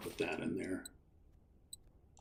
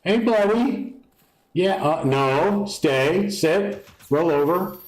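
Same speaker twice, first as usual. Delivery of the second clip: talking to a dog; 9 semitones higher, slower than usual. Acted.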